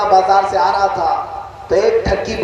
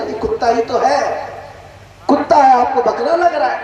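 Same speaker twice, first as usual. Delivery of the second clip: mock insistence; 5 semitones higher than usual. Swindler insists goat is a dog.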